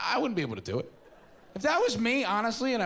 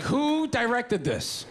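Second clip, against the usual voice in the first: stoned movie watcher; 8 semitones higher, slower than usual. Retold or imitated. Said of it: "you're like".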